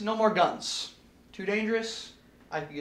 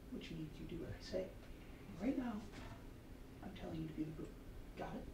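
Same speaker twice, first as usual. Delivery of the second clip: quiet threat; 19 dB quieter than usual. Real, not acted. Director quietly putting the assistant in her place, hushed. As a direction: lean in and keep it under the breath.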